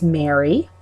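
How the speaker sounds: "Mary" with long a; "Mary" said like the name, long ay; Long Island Mary. Shown as a demonstration. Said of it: "M A R Y, like the name".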